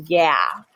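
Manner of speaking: "yeah" said with a short open ya, rising. Shown as a demonstration. Teacher contrasting yeah with yay. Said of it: "not the same thing as".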